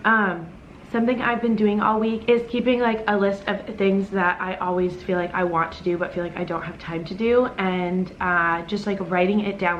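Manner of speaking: talking while chewing breakfast; mouth full. Real, not acted. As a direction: speak through a mouthful of food. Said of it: "sorry, I'm starving, so I'm, like, digging in".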